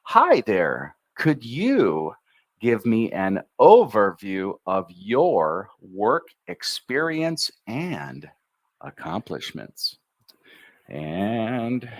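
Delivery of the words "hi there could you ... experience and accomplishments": melodic, lively model read, rising on overview; with intonation. Shown as a demonstration. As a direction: sing the sentence with its tune. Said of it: "We use intonation. That's the music".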